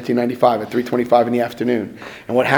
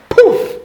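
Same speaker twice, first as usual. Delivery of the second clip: mock poof; 5 dB louder than usual. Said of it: "light a match".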